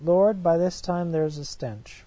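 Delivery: loud, pleading objection; urgent protest. Acted. Martha protesting to Jesus at the tomb, loud. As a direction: call it out in alarm.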